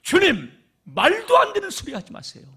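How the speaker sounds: high, loud indignant protest; Peter losing his temper. Acted. Peter angrily protests to Jesus, high and loud. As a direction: snap back at the master in outrage. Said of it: "성질을 내는 거야".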